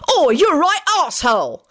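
high, indignant insult; angry yell. A narrator's reading. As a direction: call out the bully in outrage. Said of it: "Alex yelled".

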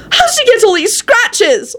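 very high, drawn-out yell; alarmed yell. A narrator's reading. Elizabeth finding Lupin's injuries, yelling. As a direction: cry it out high, contained in volume. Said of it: "Elizabeth yelled".

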